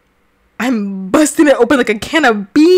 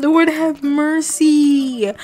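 dramatic slow plea; 4 semitones higher, much slower than usual. Real, not acted. Mock prayerful drawl.

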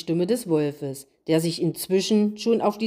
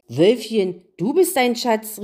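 a touch of delight, louder on the name; 2 semitones higher, 3 dB louder than usual. Acted. The queen praises the wolf for his idea, mildly delighted. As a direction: beam at the wolf. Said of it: "rief die Königin begeistert".

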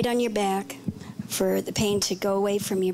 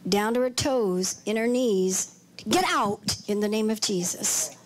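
a lightly intoned preacher's prayer; measured prayer over her aches; healing prayer. Acted. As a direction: command the pain out in prayer. Preacher prays over a woman.

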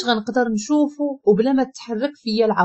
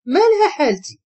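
higher, mildly taken-aback question; puzzled surprise; 4 semitones higher than usual. A narrator's reading. Daughter questions mother's remark on her look, puzzled. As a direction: ask it with a raised-eyebrow puzzlement. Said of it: "طلعت حاجب باستغراب".

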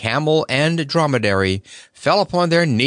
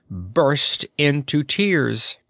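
usual speaking voice

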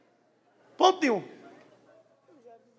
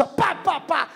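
mock gunshots; 5 semitones higher, slower than usual. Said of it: "começasse a dar tiro assim".

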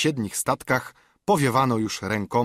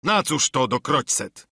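raised, cursing yell; yelled curse; 3 semitones higher than usual. A narrator's reading. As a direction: bark out the oath. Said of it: "wrzasnął Długi John". (wrzask z przekleństwem)

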